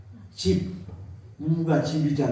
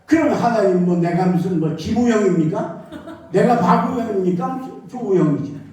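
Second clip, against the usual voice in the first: half-laughing angry protest to God; mild angry retort. Retold or imitated. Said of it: "막 화가 나가지고 하나님 앞에 막 그랬어". (하나님께 화가 나서 살짝 웃으며 항의하듯)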